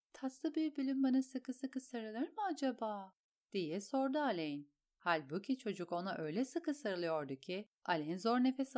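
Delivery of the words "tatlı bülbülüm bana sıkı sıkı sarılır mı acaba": high, sweet request; higher-pitched endearing question; coaxing a child. A narrator's reading. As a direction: coax a little boy into a hug. Alain asks child for a hug.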